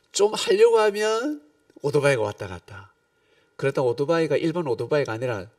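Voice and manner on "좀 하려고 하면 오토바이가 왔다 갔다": exasperated complaint. Retold or imitated. Complaining about the motorbike.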